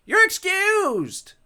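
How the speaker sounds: very high, slow mock-royal dismissal; haughty dismissal. Ghost dismissing God and Satan, haughty. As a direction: wave them off grandly.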